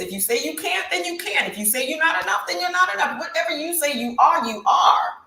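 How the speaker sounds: rising emotional emphasis; building preacher fervor. Real, not acted. Preaching self-belief, building.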